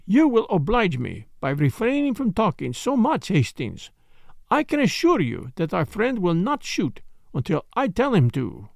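put-on lightly accented, polite detective; courteous, measured foreign gentleman, lightly voiced; Poirot. Detective soothing a startled wife, lightly voiced courtesy.

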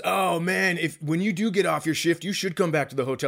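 lightly voiced fast buddy invite; a hint of the chummy comic; friendly comic inviting the cops back; Willie's voice. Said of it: "I am doing his exact voice".

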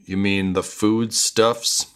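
slow, pointed weight on "foodstuffs"; pointed correction. Acted. Kira covering a slip about merchandise, pointed "foodstuffs". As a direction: correct them by leaning on "foodstuffs". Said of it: "Kira just goes".

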